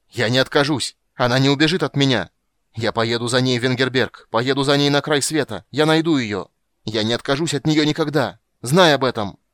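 loud, high, voice cracking with anger; cracking angry shout. A narrator's reading. Sorcerer screams after Geralt, voice cracking and loud. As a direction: scream it with a breaking voice. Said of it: "голос у него вдруг надломился".

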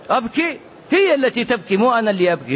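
imitating the husband's indignant protest; mock indignant husband. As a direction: play the husband balking at crying.

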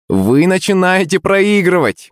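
high-pitched gloating call; taunting shout. A narrator's reading. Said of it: "закричав этому заносчивому наглецу".

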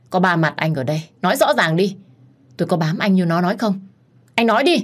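drown out the rival. Acted. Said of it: "cố tình nói lớn hơn". (cố tình nói to)

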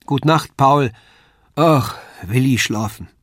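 put-on childlike, drowsy goodnight; yawning little girl's farewell; sleepy little girl. A narrator's reading. Lisei bids Paul goodnight, sleepy and childlike.

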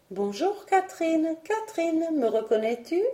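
voix de nuage aiguë et limpide, chantante; voix pure de cristal. A narrator's reading. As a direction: appeler Catherine d'une voix claire et haute. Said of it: "chanter d'une voix pure comme le cristal". (le nuage rose salue Catherine, voix aiguë et pure)

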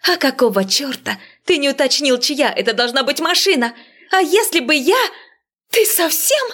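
high, furious woman's yell; angry yelling. A narrator's reading. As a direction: shout him down in outrage. Marya keeps yelling at Veniamin.

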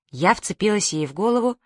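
ordinary delivery

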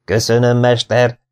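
acted exclamation of thanks; grateful cry. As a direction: call out thanks with moderate force. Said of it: "kiáltotta Szenes Iván".

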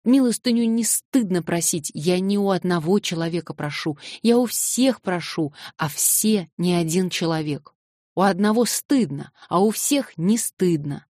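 put-on girl defending begging while sobbing; tearful shout. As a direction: press each point through tears.

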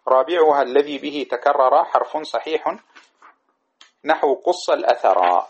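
slow chanted verse; slow lilting recitation of a grammar poem. Shown as a demonstration. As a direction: draw out each word of the poem.

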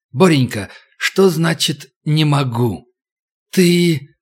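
slow, hissing snake voice; snake woman voice. Acted. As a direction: hiss like a menacing snake. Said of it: "Шипение стало совсем тихим".

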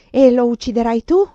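loud, feverish demand; panting urgency. A narrator's reading. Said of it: "ansai io, posseduta da un demone". (domanda ansimante e febbrile)

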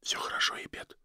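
soft unvoiced comfort; whisper. Dying wife soothing her weeping husband, whispering. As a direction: breathe it to him gently. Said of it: "прошептала она".

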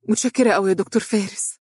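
mildly effusive gratitude on the way out; grateful. A narrator's reading. Secretary thanking the doctor as she leaves, grateful. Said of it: "قالت بامتنان وهي تغادر".

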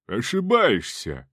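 slow, pompous noble reply; haughty aristocrat. Acted. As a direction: answer with lordly disdain. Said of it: "надменным пафосным модуляциям".

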